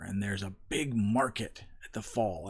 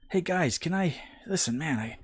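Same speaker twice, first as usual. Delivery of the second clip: whiny plea; 7 semitones higher than usual. Retold or imitated. Frank begs for ride.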